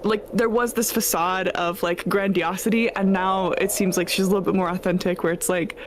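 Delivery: clipped foreign-ish witch, unsure; lonely witch defending her tower; witch character. Acted. Player voices the witch.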